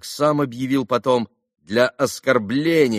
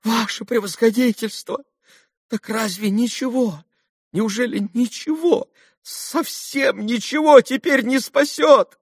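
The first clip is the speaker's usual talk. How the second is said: much higher, trembling begging; cling to the last hope; captain begging the doctor, frantic; desperate pleading; 3 dB louder than usual. A narrator's reading.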